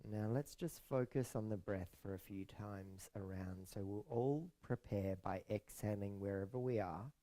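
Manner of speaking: soft, unhurried meditation voice with long pauses; hushed, soothing yoga nidra guidance; guided meditation. Acted. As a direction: ease listeners into rest, softly and calmly.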